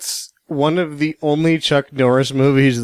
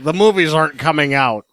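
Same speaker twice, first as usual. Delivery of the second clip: higher-pitched imitation of a confused dad; dad impression; 5 semitones higher, 3 dB louder than usual. Quoting dad stuck at the Roku, higher-pitched puzzled imitation. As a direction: mimic your dad's helpless complaint. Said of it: "He's like".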